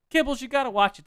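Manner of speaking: urging friend Kibbles to watch the show, excited. Real, not acted. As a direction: insist they watch it.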